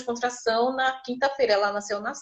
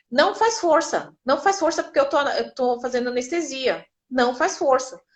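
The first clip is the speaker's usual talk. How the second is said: urgent doctor; 2 semitones higher than usual. Retold or imitated. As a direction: hold her back, steady and urgent. Doctor urging her not to push.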